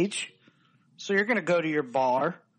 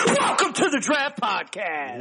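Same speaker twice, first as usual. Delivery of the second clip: loud welcome; 4 semitones higher than usual. Acted. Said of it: "Sorry, everybody's eardrums".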